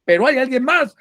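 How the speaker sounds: high, wary plea from the cliff; high nervous voice of the hanging man; skeptical climber. Acted. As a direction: ask for anyone else, not trusting God. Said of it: "Y dice el catalán".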